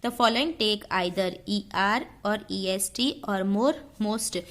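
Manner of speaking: slow, deliberate dictation read. Shown as a demonstration. Teacher dictating the rule slowly to students. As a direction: read each word out slowly for notes.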